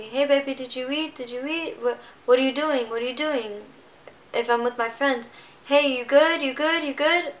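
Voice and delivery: a fond, fussing dad, pitch climbing on each "you good"; imitating her worried dad. Daughter mimics her dad's constant worried calls. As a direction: play the anxious father checking in over and over. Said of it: "calling me".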